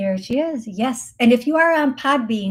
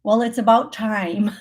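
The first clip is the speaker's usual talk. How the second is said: a hint of a solid, not-gruff voice; mildly firm, not gruff. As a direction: lightly voice her matter-of-fact tone. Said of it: "this voice that's not gruff, but solid".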